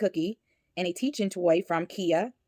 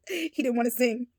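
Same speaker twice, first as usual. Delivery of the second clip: whispering; 6 semitones higher than usual. Real, not acted. Amused aside whispered.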